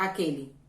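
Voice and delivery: aquele said akeli, ending in a clear i; final e as i. Shown as a demonstration. Teacher answering her own question: aquele ending in i. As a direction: give aquele with an i at the end. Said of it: "Como você pronuncia a letra E final?".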